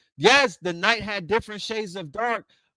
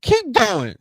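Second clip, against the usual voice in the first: hyped encouragement; 7 semitones higher, 6 dB louder than usual. Retold or imitated. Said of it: "I was like".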